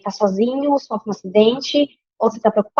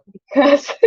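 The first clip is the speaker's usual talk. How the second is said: laughing; 3 semitones higher than usual. Real, not acted. Laughs at her own slip.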